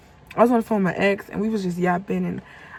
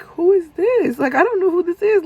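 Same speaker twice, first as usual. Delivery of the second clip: pitched way up and pushed louder; higher, louder demand; 9 semitones higher, 6 dB louder than usual. Retold or imitated. Confronting the stranger who keeps calling, a loud high demand. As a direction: demand an answer, voice climbing high. Confronting a harassing unknown caller.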